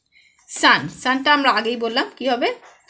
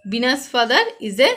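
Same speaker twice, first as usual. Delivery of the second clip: slow dictation; much slower than usual. Shown as a demonstration. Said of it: "reading exercise to pupils".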